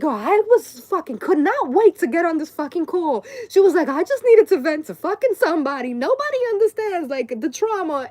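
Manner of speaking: high, loud mock venting; hammed-up angry rant about the trauma; imitating a pissed-off mom. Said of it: "she was so genuinely, like, fucking pissed off".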